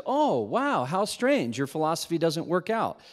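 sarcastic fake astonishment; smug gotcha. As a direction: pretend amazement to score a point. Smug gotcha in retold argument.

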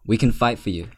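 Mithras threatens the king, lightly intimidating voice. Acted. Mithras warns the king, mild menace. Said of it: "as he's talking in this, like, intimidating tone".

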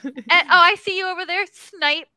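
quick, high, cute gamer taunt; playful high-pitched trash talk, re-enacted; adorable high-pitched voice. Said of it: "adorable high-pitched voice".

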